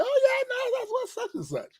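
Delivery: mock hometown fan. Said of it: "embrace you enough to say".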